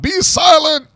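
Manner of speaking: retold announcer shushing the crowd; mock stern commentator. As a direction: quote the commentator's hushing of the crowd. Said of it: "reinforces to the crowd".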